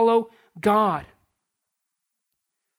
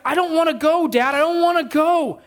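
put-on higher, whining child: I don't wanna go; whiny kid voice; 5 semitones higher than usual. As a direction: whine it like a sulky boy. Son whining, voiced by preacher.

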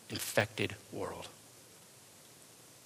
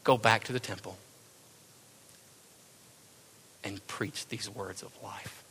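more angelic voice; 4 dB quieter than usual. Acted. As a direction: say it like a noble angel giving a command. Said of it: "In a much more angelic voice".

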